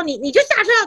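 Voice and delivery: a policeman barking at the driver to get out, mock stern; mock stern cop. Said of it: "就很凶".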